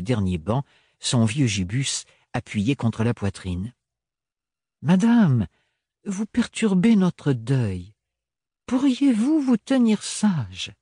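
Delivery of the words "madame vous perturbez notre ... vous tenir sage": stiff ambassador. Acted. Ambassador politely rebukes old woman.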